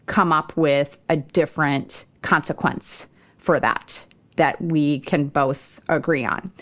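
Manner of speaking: respectfully. Retold or imitated. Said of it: "I would respectfully share".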